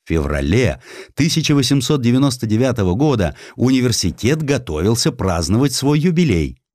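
ordinary delivery

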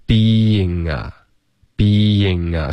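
BEING slowly linked into 啊 as bee-ying-nga; linked reading. Shown as a demonstration. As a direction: carry the ng of "being" into 啊. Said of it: "跟a要连读". (being 和 a 慢慢连读成 nga)

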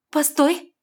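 high, loud order; commanding stop. A narrator's reading. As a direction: halt him with a command. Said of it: "приказала девушка".

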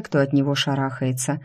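ordinary delivery

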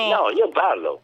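slow, feeble insistence; weak sick protest. Real, not acted. Sick guest insists to the host that he can talk, feeble and slow. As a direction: slowly insist through the fever. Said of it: "Parli male".

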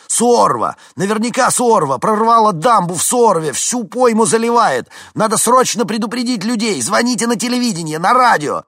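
very loud, high desperate orders; frantic shouting. A narrator's reading. Vincent warns the dispatcher about the dam, frantic shouting. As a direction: yell every line as an emergency.

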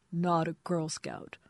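slow, slurred protest, drawn out; a drunk man insisting, slowed right down; drunken correction. Acted. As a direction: drag the words like a sloppy drunk.

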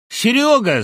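high, loud call of a name; hearty hail. Acted. Old co-author calling out to his friend, high loud hail. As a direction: holler his name down the line. Friend hails him on phone.

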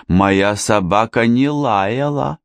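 slow, pointed, knowing delivery; meaningful hint. Acted. Vicki pointedly hints to the inspector, slow and knowing. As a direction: lay weight on every word, hinting. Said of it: "многозначительно заявила Вики".

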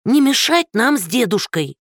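put-on high, reproachful old woman; indignant old woman. Old woman reproaching Andrey, high and indignant. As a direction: reproach him shrilly for disturbing.

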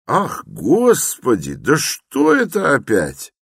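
high, slow alarmed cry; frightened cry. A narrator's reading. Porfiry startled by Raskolnikov's outburst, frightened cry. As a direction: gasp it out in fright. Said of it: "вскрикнул, по-видимому, в совершенном испуге".

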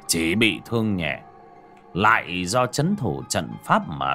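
slow, steady, reassuring elder; calm and reassuring. Acted. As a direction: settle everyone's nerves, slowly. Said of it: "nét mặt trấn định".

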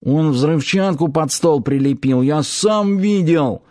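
lightly voiced nasal sailor. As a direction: speak through the nose, a bit winded. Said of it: "прогундосил запыхавшийся Паштет".

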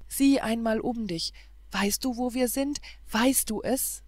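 mildly acted elation; joyful amazement. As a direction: exclaim in wonder at being saved. Rescued lovers exclaim on waking.

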